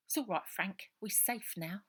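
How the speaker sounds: calm the little dog down; boy soothing his dog. Acted. Robert comforting his dog Frank, gently.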